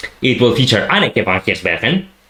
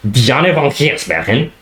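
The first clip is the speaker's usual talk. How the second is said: Dutch accent, slow and careful; 2 semitones higher than usual. Shown as a demonstration. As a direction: say the name the Dutch way. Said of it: "my Dutch accent".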